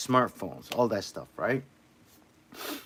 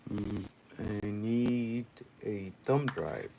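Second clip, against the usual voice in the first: odd slow drawl; 4 dB quieter, much slower than usual. Real, not acted. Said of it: "why do I talk like that?".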